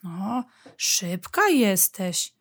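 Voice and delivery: slow, drawn-out admiration; lightly voiced child conceding a point; impressed child. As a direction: stretch it out, impressed, as a little badger. Little badger admits mum is quick.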